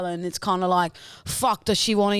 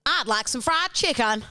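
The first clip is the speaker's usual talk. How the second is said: put-on Texan accent; 4 semitones higher than usual. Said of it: "Southern American, like Texan".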